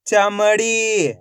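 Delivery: each syllable stretched out slowly; teacher slowly blends the syllables into a word for kids; slow blended word. Shown as a demonstration. Teacher to young pupils, blending syllables: slow, drawn out. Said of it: "तो मिलके बन जाएगा".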